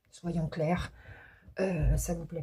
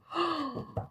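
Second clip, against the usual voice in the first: sharp gasp; 11 semitones higher than usual. Real, not acted. Violin card shocks reader.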